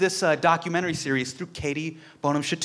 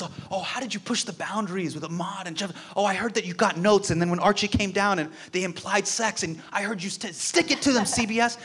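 excited fanboy questions; 5 semitones higher than usual. Retold or imitated. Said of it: "I'm freaking out".

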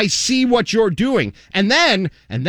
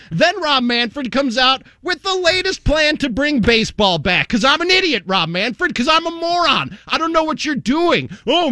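sarcastic mock rant; 5 semitones higher than usual. Mock-dumb rant about distraction.

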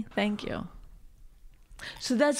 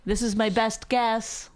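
measured; slower than usual. Retold or imitated. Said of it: "I'll say".

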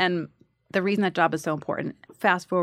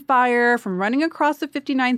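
raised, louder mock tirade; angry audition; 4 semitones higher, 5 dB louder than usual. Actor replaying her audition mindset after a marathon, angry. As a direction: rant about it, pitched up and aggrieved. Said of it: "You had a nice, angry audition".

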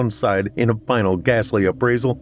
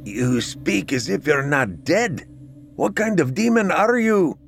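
frightened; 8 semitones higher than usual. A narrator's reading. Terrified man facing a ghost.

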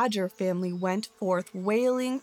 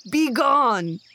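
loud, forceful dismissal; angry growled command; 3 semitones higher, 7 dB louder than usual. A narrator's reading. Angry bear to the begging badger, growling a command. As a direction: drive the beggar off angrily. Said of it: "growled the angry bear".

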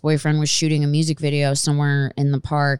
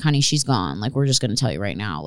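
gentle; 6 semitones lower than usual. Retold or imitated. Vet staff voiced gently.

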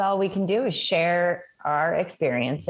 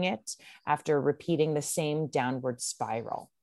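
letter read aloud; 3 semitones lower, 3 dB quieter than usual. Acted. Reads listener letter aloud.

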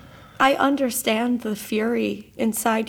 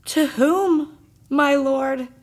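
distressed pleading; 5 semitones higher, 7 dB louder, slower than usual. Acted. Wife bewildered by accusation.

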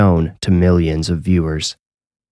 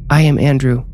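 put-on higher, strange child voice; possessed child voice; 7 semitones higher than usual. Spirit speaks through the boy, higher eerie child voice.

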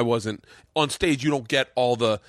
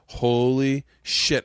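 stunned; much slower than usual. Retold or imitated. Retelling his stunned reaction.

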